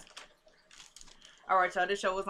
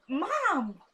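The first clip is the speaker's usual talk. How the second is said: raised, higher-pitched call; 5 semitones higher than usual. Real, not acted. Vlogger calling to mom mid-recording, real calling out. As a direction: call for your mother in another room.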